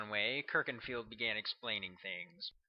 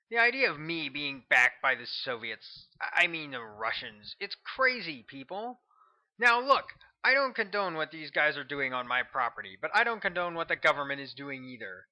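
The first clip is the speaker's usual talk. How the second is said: louder, higher, a fired-up talk-radio rant; ranting radio host; 5 semitones higher, 7 dB louder than usual. A narrator's reading. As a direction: preach it to your listeners over the air. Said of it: "The voice of Hector Nightingale crackled over the radio".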